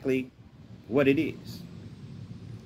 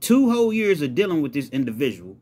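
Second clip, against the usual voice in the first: incredulous rant, building higher; angry and hurt; 7 semitones higher, 3 dB louder than usual. Acted. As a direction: vent disbelief at being betrayed. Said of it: "He's angry. He's, he's, he's hurt".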